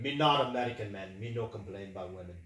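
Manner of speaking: a bad Russian tough-guy accent, caveman grammar; hammed-up bad Russian accent; terrible Russian accent. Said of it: "That was a terrible Russian accent".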